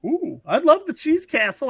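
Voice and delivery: delighted Wisconsin local; light put-on Wisconsin accent. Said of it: "Now we're getting into Wisconsin".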